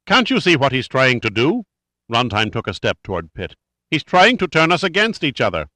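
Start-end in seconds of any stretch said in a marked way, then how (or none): 0.0-1.7 angry. Acted. Angry outburst at the board. 3.9-5.7 higher, louder, heated protest; angry. Acted. Angry outburst at the board.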